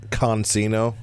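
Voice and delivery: "consino" with a clear CON at the front; mimicked mispronunciation. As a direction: quote "consino" with the wrong extra N. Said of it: "someone who said".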